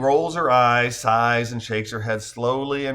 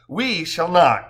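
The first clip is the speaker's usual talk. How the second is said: "We" stressed, slow and louder; 5 semitones higher, 5 dB louder, slower than usual. Acted. Courtney refusing Joe's serenade, heavy stress on "We". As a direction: lean hard on the word "We". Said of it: "emphasizes "we".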